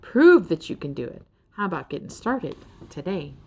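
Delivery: a lightly voiced old mentor, rhythmic and rousing; folksy Mister Rouse pep talk. Mister Rouse encouraging Ferd to start searching, rousing. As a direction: urge them to get up and go.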